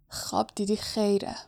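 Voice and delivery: soft muttered retort; under the breath. A narrator's reading. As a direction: mutter it back quietly. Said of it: "هری زیر لب گفت". (آهسته، زیر لب)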